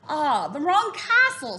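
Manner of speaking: slow, drawn-out villain voice, lightly done; a hint of a scheming raven king; sly Raven King. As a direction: savour each word like a sly king. Raven King answering Jack.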